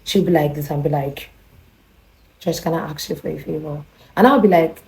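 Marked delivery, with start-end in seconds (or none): 2.4-3.8 soft, intimate imitation; hushed, acting out the neighbor; neighbor's tone of voice. Neighbor leaning over her visitor, soft favor request. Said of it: "with the whole tone of voice".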